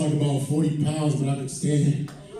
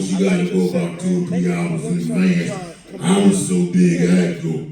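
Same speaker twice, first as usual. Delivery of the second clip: mock Lavelle relieved; Lavelle Crawford; 11 semitones lower than usual. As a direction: boom it out like a heavy comic. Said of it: "how the conversation went down".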